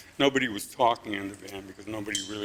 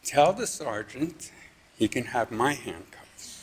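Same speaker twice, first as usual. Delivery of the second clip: slow call-out; 3 semitones higher, slower than usual. Retold or imitated. Calls out joke from van.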